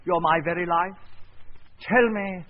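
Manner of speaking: hammed-up screen lover pleading; mock romantic lover. Shown as a demonstration. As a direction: overplay the lover's plea. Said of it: "may I be you for a moment".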